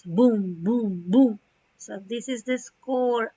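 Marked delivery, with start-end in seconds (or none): 0.0-1.4 loud voiced booms; imitated boom noises. Shown as a demonstration. Teacher giving examples of film noises, imitated booms. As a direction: boom out the sound effect in short bursts. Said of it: "and also the noises".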